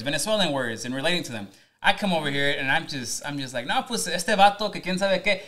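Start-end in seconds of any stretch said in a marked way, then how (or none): 3.7-5.4 Mexican slang voice. Retold or imitated. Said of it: "talking the way I talk".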